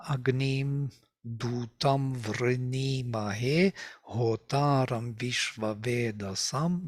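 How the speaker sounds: slow, measured iambic recitation of Agnim Dutam; iambic rhythm. Shown as a demonstration. Teacher shows students the hymn's rhythm, iambic recitation. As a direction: recite Agnim Dutam Vrinimahe slowly, marking the iambic beat. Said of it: "So usually iambic rhythm".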